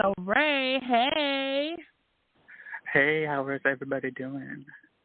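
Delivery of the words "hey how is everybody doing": very low, seductive, sultry voice. A guest greeting everybody on the show, in a sexy voice. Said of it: "Look at him with his sexy voice on".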